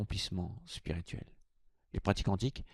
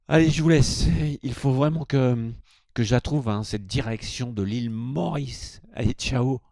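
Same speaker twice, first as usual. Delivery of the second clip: loud, rushed farewell; loud rushed sign-off; hurried loud goodbye; 4 semitones higher, 8 dB louder than usual. Pretend. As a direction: call out goodbye while already dashing off.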